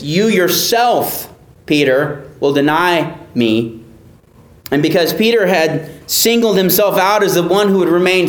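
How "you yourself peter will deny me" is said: "You yourself" said slowly with weight on "yourself"; slow, emphatic "You yourself"; stress on yourself. Shown as a demonstration. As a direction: lean hard on "yourself", slow and deliberate. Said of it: "fronted for emphasis".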